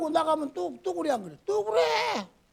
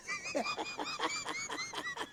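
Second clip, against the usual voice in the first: 높은 웃음; 12 dB quieter than usual. Real, not acted. 막둥이 이야기 중 웃음.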